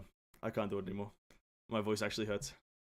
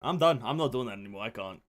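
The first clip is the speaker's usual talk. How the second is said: miserable; 4 semitones lower, 4 dB quieter, faster than usual. Real, not acted. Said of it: "I'm fucking in pain".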